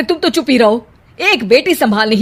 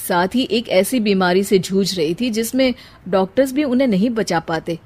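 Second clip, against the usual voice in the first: gentle comforting; 3 dB quieter than usual. Acted. Sahil softly comforts his wife Sheena after the death. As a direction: soothe her fears tenderly.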